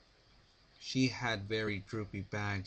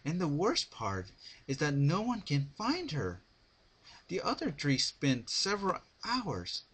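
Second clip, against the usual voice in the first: higher, clipped commands, spiking on the repeated hours; barked orders; 10 semitones higher, 5 dB louder than usual. A narrator's reading. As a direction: snap out orders like a stressed leader. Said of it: "Twilight barked".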